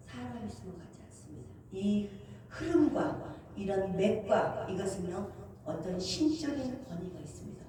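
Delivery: awed quiet reply. Retold or imitated. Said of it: "딱 그러는 거예요".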